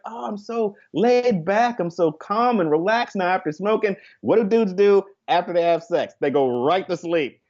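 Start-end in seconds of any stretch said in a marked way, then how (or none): 0.0-3.9 mock laid-back. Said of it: "they're like".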